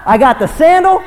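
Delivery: high, loud cry of I got the sandal; loud and high, exultant; triumphant shout. Retold or imitated. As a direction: crow it to the crowd. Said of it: "Boaz wasn't shouting".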